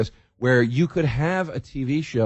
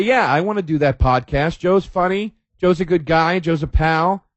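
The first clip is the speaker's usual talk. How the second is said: eager guest; 5 semitones higher than usual. Retold or imitated. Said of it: "Do people say".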